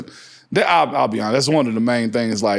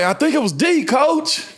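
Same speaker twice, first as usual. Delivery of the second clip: innocent answer; 8 semitones higher than usual. Retold or imitated. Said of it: "And I was like".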